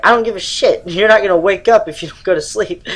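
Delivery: angry mom. Retold or imitated. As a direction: scold like a fed-up mother. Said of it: "she's like".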